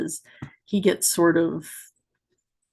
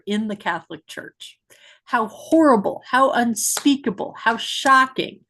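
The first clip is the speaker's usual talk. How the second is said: mock dramatic build-up; 3 semitones higher than usual. Mocking the clip's dramatic build-up.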